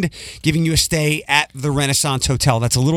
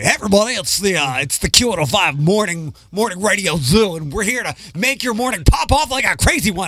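throaty radio voice; 3 semitones higher than usual. Pretend. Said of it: "It's, it's more throaty".

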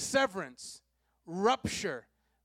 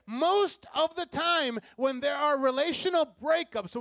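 fervent preaching; 9 semitones higher, 7 dB louder than usual. Real, not acted. Preacher building intensity.

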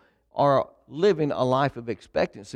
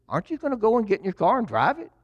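higher and quick, a mock-eager nudge; imitating a wife pestering playfully; eager urging; 8 semitones higher, faster than usual. Wife nudging her husband to finally drive the new car, mock-eager and quick.

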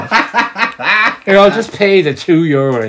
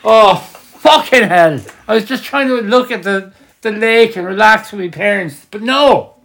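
panicked mock plea; 8 semitones higher than usual. Mock panicked tourist aside.

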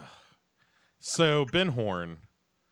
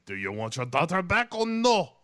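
mock villain; 8 semitones higher, 5 dB louder than usual. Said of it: "And he's like".

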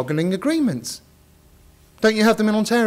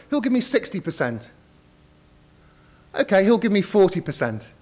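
auctioneer. Acted. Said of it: "start the bidding".

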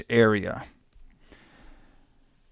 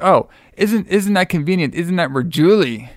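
lightly mocking, pitched-up aunt voice; sarcastic aunt; 5 semitones higher than usual. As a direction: play the aunt needling him with fake surprise. Aunt mocks Billy's Denver plan.

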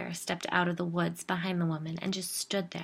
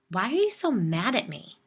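louder, pushy demand; 3 semitones higher, 7 dB louder than usual. A narrator's reading. Jill confronting the narrator over her anger, demanding. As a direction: demand an answer. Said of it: "she demanded".

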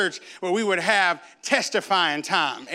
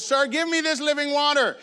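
lightly voiced woman, higher pitch; mildly acted plea, raised and sustained; pleading woman; 6 semitones higher than usual. The woman at the well asks Jesus for water, lightly acted higher plea.

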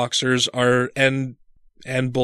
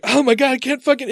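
higher despairing cry; disgusted despair; 10 semitones higher than usual. Retold or imitated. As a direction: moan in disgust. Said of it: "I'm like".

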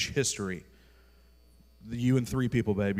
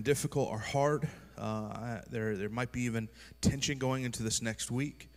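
pastor's prayer. Acted. Leads a prayer.

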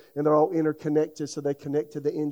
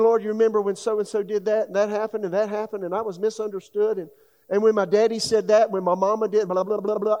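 higher, pleading outpouring to God, half-reenacted; retold tearful prayer; 6 semitones higher, 5 dB louder than usual. Eighteen-year-old pouring hurts out to God, pleading. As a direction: pour out old hurts like a teenager praying. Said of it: "I weep my eyeballs out".

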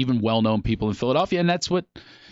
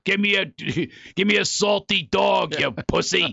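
put-on drunk heckler; 4 semitones higher than usual. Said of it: "and they're".

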